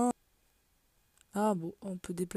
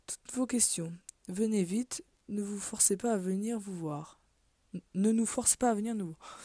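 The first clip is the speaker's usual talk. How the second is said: measured, projected read-aloud of a formal letter. Acted. Reads an in-game letter aloud.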